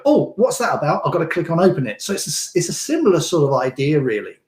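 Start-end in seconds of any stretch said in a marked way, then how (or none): 0.1-2.0 higher "Oh" rising up, mock curiosity; "Oh" lifted higher with a rising questioning lilt; intrigued reader. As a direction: play the hooked reader who has to click. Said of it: "makes them go".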